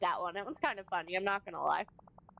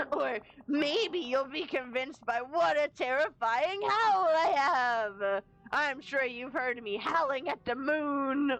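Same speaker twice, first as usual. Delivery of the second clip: mock wolf boasting; 2 semitones higher than usual. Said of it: "very rough on your throat".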